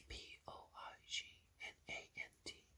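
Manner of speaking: P O I G N A N T spelled letter by letter in a whisper. Shown as a demonstration. Spelling the word for listeners, letter by letter. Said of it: "I'm not sure what that word is".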